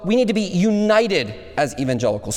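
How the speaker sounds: "united" leaned on within the phrase; stress on united. Shown as a demonstration. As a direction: put the weight on "united". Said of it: "emphasize the word united".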